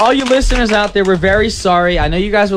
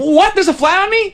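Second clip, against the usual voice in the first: a lightly voiced groovy seventies dude, higher and faster; retro seventies guy; 10 semitones higher than usual. Time traveller from 1977 hits the disco, lightly voiced groovy dude. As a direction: play a jive time traveller from 1977 at first. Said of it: "that was the character I was going for".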